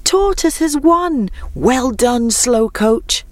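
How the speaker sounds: high, excited cheer. A narrator's reading. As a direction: cheer the winner on. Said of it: "the animals cheered".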